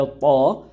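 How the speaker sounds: heavy "طا" from the back of the mouth; back-of-mouth sound. Shown as a demonstration. Teacher showing learners the heavy letter "طا", back-of-mouth sound. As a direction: say "طا" thick, made at the back of the mouth. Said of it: "منہ کی back side والی آواز".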